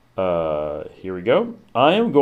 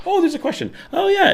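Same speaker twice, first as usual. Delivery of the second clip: mock cheerful me. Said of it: "be like".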